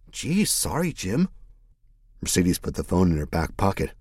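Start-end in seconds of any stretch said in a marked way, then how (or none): 0.1-1.3 sarcastic. Acted. Mercedes sarcastic apology.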